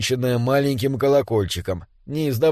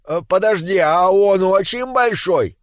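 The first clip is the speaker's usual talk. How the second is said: high, drawn-out call; 5 semitones higher than usual. Acted. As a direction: shout the question over, stretching the end. Distant dwarf calls out a question. (протяжно кричит издали, высоким голосом)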